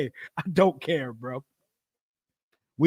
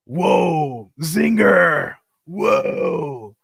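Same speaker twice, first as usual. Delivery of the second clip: mock whoa; 4 dB louder, much slower than usual. Mock reaction to a weak dig.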